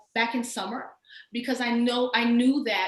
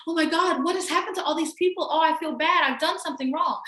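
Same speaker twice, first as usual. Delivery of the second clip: lightly voiced, pitched a bit higher, fretting over feeling bad; mock guilt-ridden voice; 6 semitones higher than usual. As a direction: play the guilty well-meaner, half in jest. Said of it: "How you feel about".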